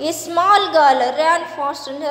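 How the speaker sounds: slow, deliberate story reading; measured classroom narration with pauses; textbook read-aloud. A narrator's reading. Reads the English textbook story aloud.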